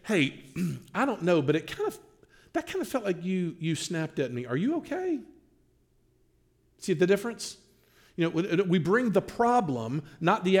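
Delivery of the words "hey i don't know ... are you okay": gentle concern. Retold or imitated. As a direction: ask gently, checking in on them. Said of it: "we look and say".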